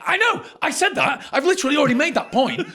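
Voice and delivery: high-pitched indignant retort; retold exasperation. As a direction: act out being fed up with the call centre. Retelling exasperated reply to call centre.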